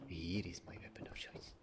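low, very soft whisper; whispered reveal. Pretend. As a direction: drop into a hushed whisper to answer yourself. Hushed answer to own question.

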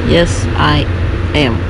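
stiff, even robot voice. Acted. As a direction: talk like a machine, no feeling. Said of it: "Why do you sound like a robot?".

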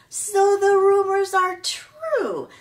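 slow, high and loud taunt through laughter; mocking laugh. A narrator's reading. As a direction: laugh at the gosling as you say it. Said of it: "Nettle laughed".

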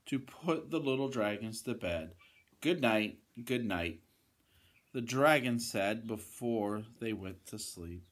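lively, emphatic bedtime-story reading; storybook voice with punched key words; children's story narration. Acted. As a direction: read to little ones with big swings in tune.

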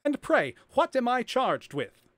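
high, loud voice of a man giving in; unmasked prisoner facing his fate, high and loud; resigned prisoner. A narrator's reading.

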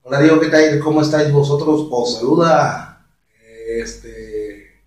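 imitated Castilian accent; Spain Spanish accent. Shown as a demonstration. Restarting the steps for viewers, Castilian accent. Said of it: "el acento de un español".

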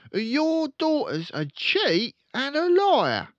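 loud, high accusing father; furious dad accusing; angry father. Acted. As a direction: jab every word at her. Father voiced.

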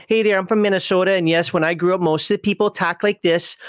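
lightly hammed-up Minnesota accent; stereotypical Minnesota accent. Shown as a demonstration. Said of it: "It's very stereotypical".

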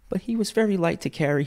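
high, gentle mother's voice; tender mother. A narrator's reading. Mother recalls carrying her child, tenderly. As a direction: remember fondly, pitch lifted.

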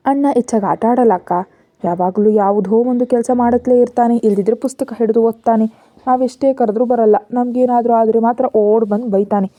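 ordinary delivery, nothing marked

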